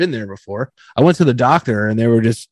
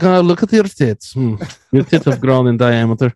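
imagined doctor; 2 semitones lower than usual. Retold or imitated. Doctor inspecting patient's chest, mock-clinical. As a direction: play the doctor examining a patient. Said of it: "She just comes in, she's like".

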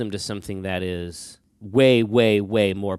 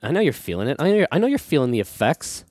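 sensual radio voice; 5 semitones higher, 3 dB louder, faster than usual. Pretend. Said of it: "my sensual radio voice?".

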